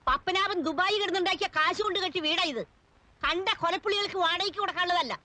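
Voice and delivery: angry outburst. Acted. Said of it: "ഒന്ന് പതുക്കെ പറ".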